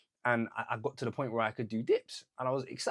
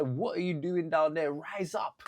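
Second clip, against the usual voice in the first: louder, higher retold push; client quote; 4 semitones higher, 3 dB louder, slower than usual. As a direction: client telling him to rise up, mildly raised voice. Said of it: "She said".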